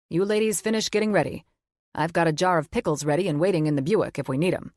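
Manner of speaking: lightly voiced gruff teasing father; teasing dad. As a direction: rib her like a proud dad.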